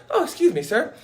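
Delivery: mock-polite busybody; mock polite lecturer. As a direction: imitate a busybody correcting a stranger. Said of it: "you're gonna come and be like".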